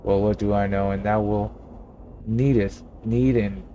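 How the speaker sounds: lightly voiced old-fashioned innkeeper, stately; mock Shakespearean landlord; a hint of a pompous olde-English gentleman; archaic formal speech. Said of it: "When did you start talking like that?".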